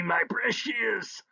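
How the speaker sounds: slow possessive croon; troll cooing. Acted. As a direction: croon to the dirt like a treasure. Troll coos to his dirt.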